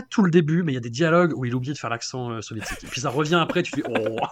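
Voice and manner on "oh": low, drawn-out "oh"; mock reaction groan. Host acting his reaction to the accent returning, mock groan. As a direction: let out a long mock "ohh".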